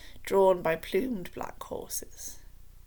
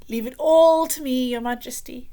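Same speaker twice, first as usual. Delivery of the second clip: soothingly; 5 semitones higher, 9 dB louder than usual. A narrator's reading. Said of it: "said Spittleworth soothingly".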